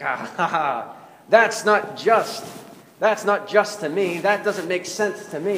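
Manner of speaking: retelling a smug TV host brushing it off. Retold or imitated. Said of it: "kind of smugly".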